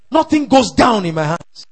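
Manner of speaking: firm, forceful declaration; preacher driving the words home; aggressive declaration. Shown as a demonstration. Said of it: "make that declaration aggressively".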